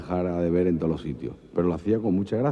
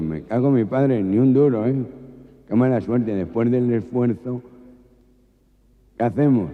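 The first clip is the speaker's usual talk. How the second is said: nasal robber voice; 4 semitones higher, 4 dB louder than usual. Acted. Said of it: "tres gangosos".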